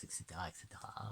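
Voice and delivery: quick throwaway whisper, fast; whispered aside. Real, not acted. Listing card meanings to the viewer, dropping to a quick whisper. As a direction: rattle it off under the breath.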